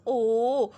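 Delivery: ओ held as a pure long o, not oo; clear long o. Shown as a demonstration. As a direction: say ओ round and open, never ऊ. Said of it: "क्या आवाज़ निकाल रही हूँ?".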